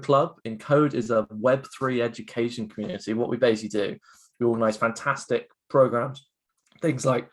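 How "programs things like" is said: voice giving out. Real, not acted. Co-founder pitching his programs to students, voice giving out. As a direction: voice cracks mid-phrase. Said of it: "sorry, my voice went there".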